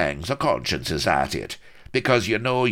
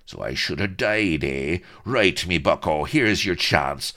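loud, high taunting pirate challenge; furious swaggering pirate throwing down a challenge; raging pirate colonel; 10 semitones higher, 4 dB louder than usual. A narrator's reading. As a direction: bellow the insults at the dandy captain. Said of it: "the raging colonel".

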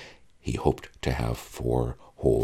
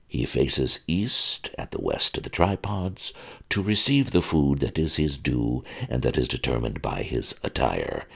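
lightly voiced butler. Butler instructing the young groom in etiquette, lightly prim. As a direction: recite rules like a stuffy butler.

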